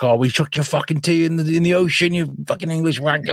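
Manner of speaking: high-pitched Boston rant; mock Boston accent. Host mimics Bostonian ribbing the English, Boston accent. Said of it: "I love the Boston accent".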